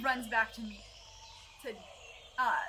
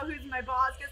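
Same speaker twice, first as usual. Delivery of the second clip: ordinary delivery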